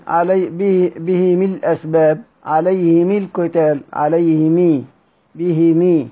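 عليه مي ending in a clear "mi"; به مي with "i" on the mim; mim with kasra. Shown as a demonstration. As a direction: recite عليه مل القتال as "alayhimi-l-qital". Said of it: "هكذا".

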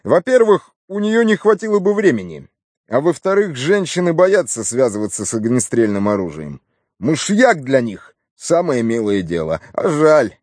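a hint of a disappointed policeman; lightly voiced regretful inspector. Slack ruling out a suspect, mildly regretful. Slack argues her innocence.

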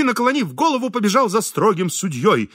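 ordinary delivery

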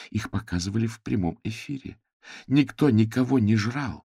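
furious tirade defending him; angry. Acted. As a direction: tell him off in anger. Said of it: "Её глаза полыхнули гневом".

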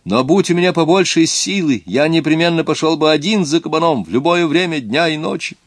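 высокий, громкий юношеский голос; гордо выпрямись и скажи выше; гордо, по-мальчишески. Acted. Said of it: "гордо выпрямившись". (Эдуард гордо отвечает крестьянам, высоким голосом)

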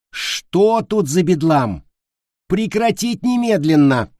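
high, loud, drawn-out scolding; indignant. A narrator's reading. Teacher bursts in on pillow fight, indignant. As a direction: order them to stop, outraged. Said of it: "красная от негодования Марфа Антоновна".

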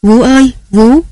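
high, frightened call to the nanny; young wife calling her falling nanny, panicked; panicked cry. Acted. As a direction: cry out in alarm, voice jumping up. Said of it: "hốt hoảng kêu lên".

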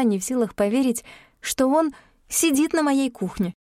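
ordinary delivery

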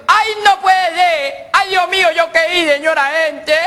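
high, loud, slow squeal of panic; panicked whine. Acted. Driver stopped by police, squealing in high panic. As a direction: plead in high fright.

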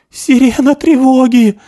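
high, loud panicked cry; a terrified young man yelling the alarm; terrified scream. Acted. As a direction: scream it in horror, slowly. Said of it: "закричал Пиглен, в ужасе".

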